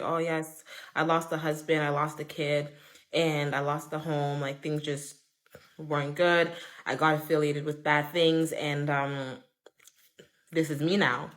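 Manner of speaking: subdued confession. Retold or imitated. Jessica tells old friend she lost everything, subdued retold confession. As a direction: imitate someone owning up to losses, quietly.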